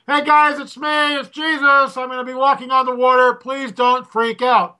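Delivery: high-pitched, sing-out Sunday-school Jesus; gentle Jesus. Retold or imitated. Imagining Jesus warning disciples from the water, mock gentle. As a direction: call across the water in a sweet mock-gentle voice. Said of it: "called out the gentle Jesus".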